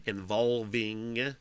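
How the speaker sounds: "involving" drawn out slowly, every syllable sounded; deliberate enunciation. Shown as a demonstration. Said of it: "involving enunciation".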